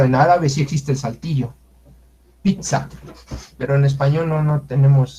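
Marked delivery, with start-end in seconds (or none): 2.4-2.9 Pizza with a sharp stop at the t; cut airflow. Shown as a demonstration. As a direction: stop the breath inside Pizza. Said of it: "cortamos el aire para decir pizza".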